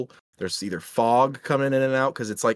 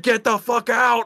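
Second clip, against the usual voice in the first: high, loud and slow spooky ghost voice; snaky ghost voice; 12 semitones higher, 6 dB louder, slower than usual. Retold or imitated. Friend retelling the ghost's warning in a loud, slow, snaky voice. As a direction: hiss it out like a snake-voiced ghost. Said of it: "Slytherin Snaky almost from Harry Potter".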